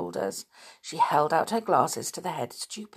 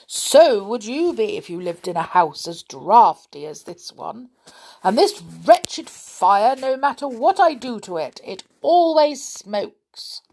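grumbling big stupid; 4 semitones higher, 8 dB louder than usual. A narrator's reading. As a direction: moan about the draughty house. Big stupid's complaint continues.

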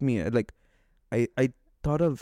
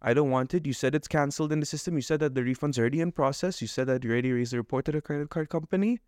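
fuming rant; faster than usual. Retold or imitated. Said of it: "And now I am fuming".

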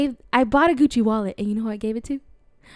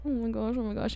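retold panic; 2 semitones lower, 13 dB quieter, faster than usual. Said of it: "And I was like".

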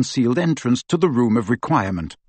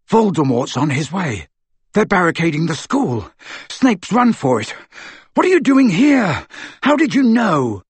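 urgent surprised; 5 semitones higher than usual. Acted.

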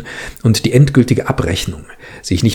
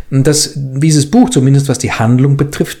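zögernd; 3 semitones higher than usual. Acted. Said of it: "sagte Tola Adjani zögernd".

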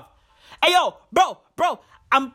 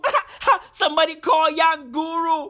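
high, laughing excitement; laughing imitation of a rapper; 5 semitones higher than usual. Retold or imitated. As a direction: cackle out the name. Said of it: "the rapper was like".

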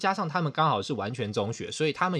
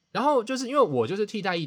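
usual speaking voice

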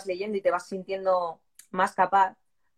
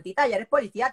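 nieces asking; 3 semitones higher than usual. Retold or imitated. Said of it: "mis sobrinas, que cada día me preguntaban".

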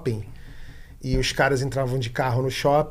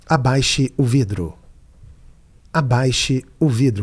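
slow, firm machine command; 3 semitones lower, slower than usual. Retold or imitated. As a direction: order it slowly like a machine. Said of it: "Aí eu falava assim".

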